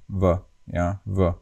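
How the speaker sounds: V said mildly with loose lips; a loose-lipped V, no bite, no rounding; mild Slovak V. Shown as a demonstration. Teacher shows learners the Slovak V, loose-lipped and mild. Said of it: "is pronounced very mildly".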